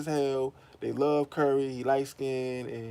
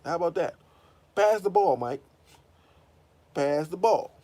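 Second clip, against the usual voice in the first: high, taunting white coach impression; mock white coach; 7 semitones higher than usual. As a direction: lord it over the star player. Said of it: "they can yell at a man".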